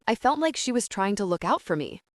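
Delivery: the faintest lean on "she"; "she" lightly stressed; slight stress on SHE. A narrator's reading. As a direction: put just a slight emphasis on the word "she". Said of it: "slightest emphasis on the word she".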